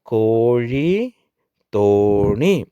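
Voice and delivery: കോഴി, തോണി with very long oo; long-vowel reading drill. Shown as a demonstration. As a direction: slowly draw out the first vowel of കോഴി and തോണി. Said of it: "ഇവ കൊണ്ടുള്ളൊരു വാക്ക് പഠിക്കാം". (കോഴി, തോണി ഓ നീട്ടി വായിക്കുക)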